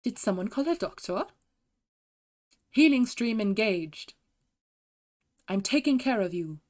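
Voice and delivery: lightly voiced German medic lines; put-on German, spaced phrases; German-accented game healer. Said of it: "I can do the German ones".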